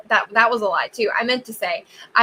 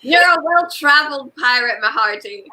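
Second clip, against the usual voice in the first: playful pirate banter; mock pirate voice, pitched up at first; 4 semitones higher than usual. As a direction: tease back as a pirate mate. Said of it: "do it in our pirate voices".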